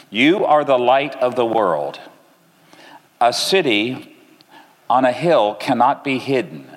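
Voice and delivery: measured Bible reading, slowing toward the end; scripture reading. Acted. Preacher reading Matthew to the congregation, measured and solemn. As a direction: read the verses with weight, unhurried at the close.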